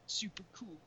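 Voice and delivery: slow, lightly voiced deadpan tough guy; mock a stoic movie badass, very slowly; deadpan cool guy. Mocking deadpan cool movie character.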